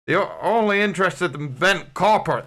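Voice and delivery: a lightly voiced Ted; a half-hearted go at Ted from Line of Duty; the host attempts a Ted voice for a Line of Duty fan, only lightly; Ted impression. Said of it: "my Ted impression".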